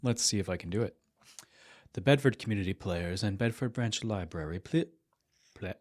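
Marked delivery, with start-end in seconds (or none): 1.9-5.7 trying for a refined, projected announcer; a shot at sounding refined, a bit louder. Pretend. Library announcer trying to read the play notice, refined. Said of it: "I'm gonna try to sound refined".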